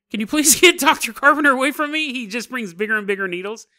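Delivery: laughing plea. Retold or imitated. Frozen girl begging about the doctor's needles, laughing plea. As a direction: beg through a laugh to keep the doctor away. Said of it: "she wouldn't say stuff like".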